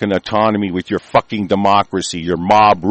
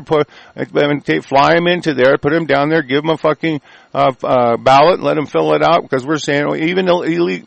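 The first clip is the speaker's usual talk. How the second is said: lightly voiced, higher sneering politician; mock politician voice; 6 semitones higher than usual. Host parodies politicians importing voters, a light mocking voice. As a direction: play the schemers with a raised, sarcastic lilt. Mimicking opponents' voting scheme.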